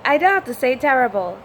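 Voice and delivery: quick, amused realisation; catching the mistake; surprised realisation. Real, not acted. Learner realising the error, a quick surprise. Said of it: "What is going, E?".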